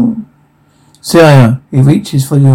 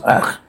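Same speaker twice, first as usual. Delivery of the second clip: soft, throaty "ach"; half-hearted dying gurgle; mock gurgle; 8 dB quieter than usual. Reader acts out gurgle sounds, soft mock death rattle. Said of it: "gurgle sounds".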